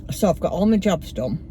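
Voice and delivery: talking around a mint; sucking a mint. Real, not acted. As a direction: mouth full with a mint. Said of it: "Sorry, I'm sucking a mint".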